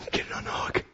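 whispered, urgent aside to oneself; fretful whispered self-instruction; mock whisper. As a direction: hiss it under your breath like a nervous kid. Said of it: "That's a perfect picture of how many of us".

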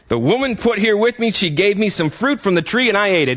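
high-pitched shifting of blame; mildly acted blaming. Adam answering God about the fruit, lightly acted blaming. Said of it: "just gonna blame it on the".

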